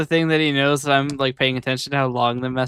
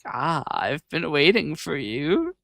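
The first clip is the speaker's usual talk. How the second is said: mustache twirling villain; slower than usual. Retold or imitated. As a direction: purr it like a scheming villain. Villain turns his chair around.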